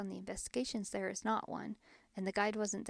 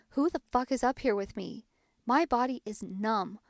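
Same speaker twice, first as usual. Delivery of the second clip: retold outburst, a bit louder; mock yell; 5 dB louder than usual. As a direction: imitate someone yelling, only half-raised. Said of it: "like, yells".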